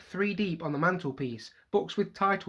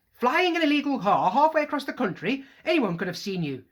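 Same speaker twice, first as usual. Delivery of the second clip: scolding; 9 semitones higher, 6 dB louder than usual. Acted. Mother scolding sons.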